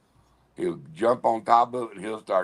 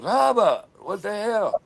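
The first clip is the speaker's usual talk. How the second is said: calling out to dog; 12 semitones higher than usual. Retold or imitated. Rose yelling at her pit bull, high sharp call. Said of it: "she goes".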